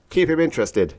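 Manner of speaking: high, urgent prompt; urgent hiss. A narrator's reading. Stetson coaching Orn, urgent hiss. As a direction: urge it in a high voice. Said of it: "hissed Stetson".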